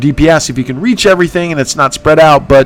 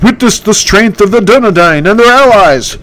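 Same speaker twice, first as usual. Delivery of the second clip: higher heroic voice, proud; raised, noble battle speech; Candace voice; 6 semitones higher than usual. Acted. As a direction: hero boasting of his allies. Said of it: "that's my impression".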